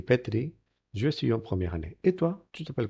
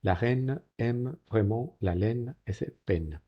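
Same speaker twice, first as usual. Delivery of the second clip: slow model reading; slower than usual. Shown as a demonstration. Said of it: "model reading".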